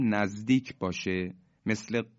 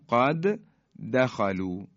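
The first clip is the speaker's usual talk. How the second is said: Quranic recitation; slower than usual. Shown as a demonstration. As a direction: intone قد دخلوا with one strong دال. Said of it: "مثال بعدی".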